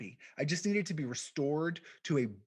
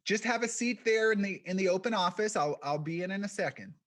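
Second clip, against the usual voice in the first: put-on high-pitched, squeaky little old lady; 6 semitones higher, 4 dB louder than usual. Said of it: "this high-pitched, squeaky voice".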